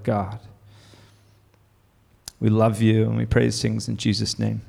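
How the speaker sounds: prayer. Acted. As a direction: pray aloud for the whole room. Pastor leads the congregation in prayer.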